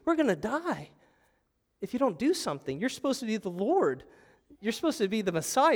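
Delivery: high, pleading protest of panicked disciples; imitated panic. Disciples confronting sleeping Jesus in the storm, imitated panic. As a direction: act out a desperate, accusing plea. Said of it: "the disciples are panicking".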